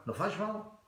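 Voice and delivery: happy. Shown as a demonstration. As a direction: say it happily, high and soft. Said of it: "happy, you go like".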